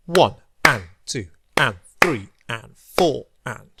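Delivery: rhythmic counting. Shown as a demonstration. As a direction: count the quavers in strict even time. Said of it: "we'll clap it again".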